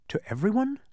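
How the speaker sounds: small, high-rising unhappy question. A narrator's reading. Boy facing farewells to his friends, unhappy. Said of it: "said Milo unhappily".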